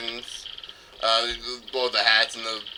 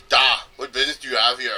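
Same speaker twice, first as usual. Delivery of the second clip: mock Russian accent; faster than usual. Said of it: "that voice is a bit, sound a bit racist".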